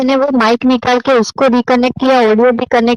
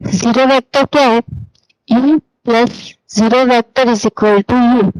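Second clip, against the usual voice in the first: slow and careful; slower than usual. Real, not acted. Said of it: "आराम से बोलती हूँ".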